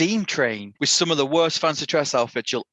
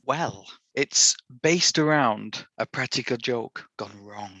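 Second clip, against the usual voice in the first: sinister voice; slower than usual. Acted. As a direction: creep it out slowly, trailing off. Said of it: "is that a sinister voice?".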